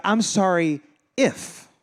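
slow apology left hanging on "if"; non-apology. Acted. Someone who never admits being wrong, grudging apology. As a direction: stretch out a grudging sorry. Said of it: "it sounds just like this".

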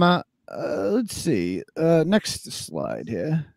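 slow, low rumbling mountain voice; Tom Mountain voice. Pretend. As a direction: draw it out like a big slow giant. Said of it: "read this in Tom Mountain voice".

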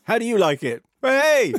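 high, loud, triumphant dog; gleeful dog voice, whooping upwards. Acted. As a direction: crow it like a dog taking revenge. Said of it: "you were doing the dog voice".

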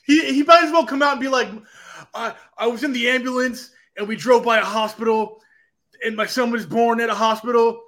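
mock promo. Parodies an overwrought sob-story promo.

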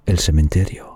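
measured storyteller reading; story narration. A narrator's reading. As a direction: read it like a bedtime tale. Narra cuento de terror. (narración de cuento)

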